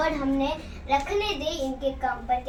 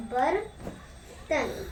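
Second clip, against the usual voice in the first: बर्तन said very slowly, syllable by syllable; slow model word; 5 dB quieter, much slower than usual. Shown as a demonstration. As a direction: draw out बर्तन for the class. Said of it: "teacher models answer".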